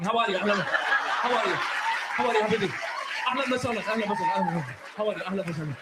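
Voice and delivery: rapid mock Arab accent greeting; fast Arab accent. Shown as a demonstration. Comedian mocks Arabs talking fast, Arab accent. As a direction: rattle the Arabic greetings off quickly. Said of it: "Arab talk a lot faster".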